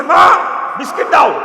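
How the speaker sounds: put-on loud, high child's demand for biscuits; child shouting demand. A child shouts to his mother for biscuits, loud and demanding. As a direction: yell it like a spoilt child.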